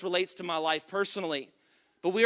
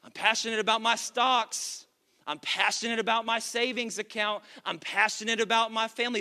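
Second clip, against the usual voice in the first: mock churchgoer voice; 3 dB quieter than usual. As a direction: tease a congregant gushing about the Texans. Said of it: "that's just how I picture it in my mind".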